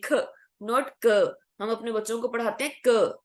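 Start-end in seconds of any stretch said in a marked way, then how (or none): 0.0-0.1 ख said with a strong puff of breath; aspirated kh. Shown as a demonstration. Teacher showing students the blasted ख sound. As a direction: blast the ख with air. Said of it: "जो voice है वो ख बनेगी".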